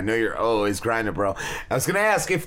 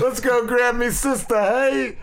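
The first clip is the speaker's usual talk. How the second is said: higher, hammed-up British wiseguy; Dangerfield British mix; 10 semitones higher, slower than usual. Host mixing Rodney Dangerfield with a British guy, higher mock British. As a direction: crack it like Dangerfield with a fake British accent. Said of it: "Rodney Dangerfield and a British guy all mixed together".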